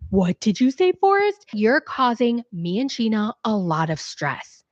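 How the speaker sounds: a hint of an offended mother; hammed-up disbelief; mock indignant Molly. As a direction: pitch leaps on Forrest. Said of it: "And Molly's like".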